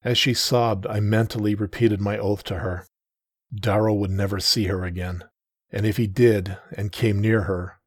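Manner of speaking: ordinary delivery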